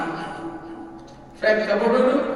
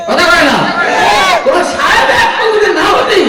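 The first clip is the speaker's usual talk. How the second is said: tag; 7 semitones higher, 7 dB louder than usual. Real, not acted. Challenges opponents before crowd.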